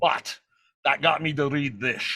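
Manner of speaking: measured impression of the Scottish star; deliberate, slurred-s impersonation; Sean Connery. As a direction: imitate the film legend conceding a point.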